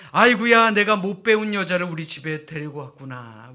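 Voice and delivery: loud hammed-up lament; wailing husband. A narrator's reading. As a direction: cry out in loud dismay. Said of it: "라고 땅을 칩니다".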